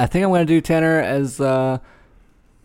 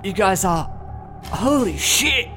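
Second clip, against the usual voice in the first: put-on English accent; 7 semitones higher, slower than usual. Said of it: "I'm gonna do an English accent".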